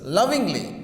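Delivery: "Lovingly" said LOV-ingly, first syllable strong; stress on first syllable. Shown as a demonstration. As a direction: hit LOV in "Lovingly", drop the rest. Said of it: "The stress is on first syllables".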